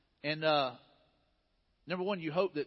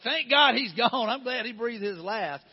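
laughing through the words, louder and higher; hammed-up glee at a funeral; mock relieved laugh; 4 semitones higher, 8 dB louder than usual. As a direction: mourner pretending to cheer, laughing loudly. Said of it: "You don't want them to go like".

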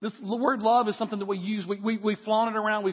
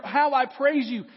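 higher, louder and slow, like an exclamation point; excited exclamation; 5 semitones higher, 4 dB louder than usual. Shown as a demonstration. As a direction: burst out in joyful praise. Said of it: "It's an exclamation point".

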